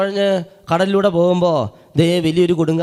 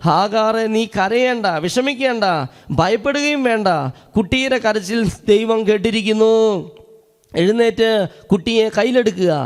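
angel calling out. Retold or imitated. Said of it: "ഹാഗാറിനോട് പറഞ്ഞു".

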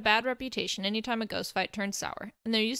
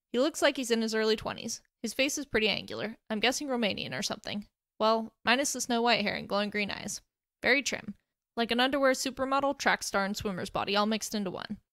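teasing. Acted. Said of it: "voice teasing and oh so chipper".

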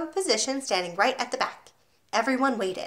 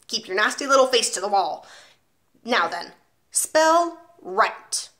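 1 commanding headmistress; 3 dB louder than usual. Acted. Trunchbull orders spelling test.

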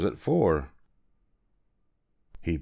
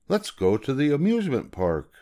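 higher, upbeat man's voice; cheerful man; 6 semitones higher than usual. Acted. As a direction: pitch the fun idea brightly. Man with yellow hat voiced.

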